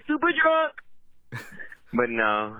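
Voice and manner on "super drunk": slogan yell. Real, not acted. Caller pitching a new hotline name, yelled. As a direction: stretch it out like a party chant.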